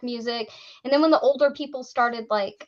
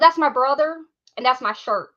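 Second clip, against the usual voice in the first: lightly mimicked Southern kid's accent; a hint of rural Southern twang, put on; imitated backwoods accent; 4 dB louder than usual. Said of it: "if I can get his accent right".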